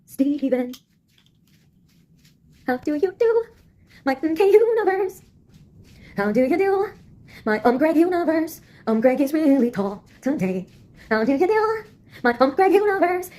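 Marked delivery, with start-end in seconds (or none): 2.7-8.6 high, sing-song mock-polite greeting; mock posh greeting. 11.1-13.3 high, sing-song mock-polite greeting; mock posh greeting.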